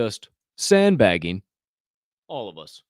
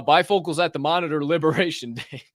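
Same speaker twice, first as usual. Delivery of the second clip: chuckling; 3 semitones higher, 4 dB louder than usual. Real, not acted. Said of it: "It's honestly why I'm kinda chuckling".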